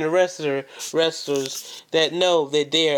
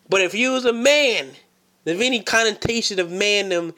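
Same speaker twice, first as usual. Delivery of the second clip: raised voice; 4 semitones higher than usual. Acted. Calling out rival.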